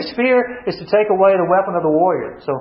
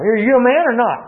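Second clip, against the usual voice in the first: higher-pitched challenge; goading taunt; 6 semitones higher than usual. Retold or imitated. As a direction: push the insult home. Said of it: "Men don't like to hear that question".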